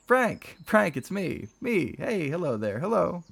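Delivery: a brother overjoyed to hear Frank's voice; excited calling. A narrator's reading. Eric calling excitedly on phone.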